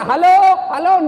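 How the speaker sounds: high, loud telephone hello; retold shout. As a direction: imitate someone yelling into the phone. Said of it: "Dia teriak".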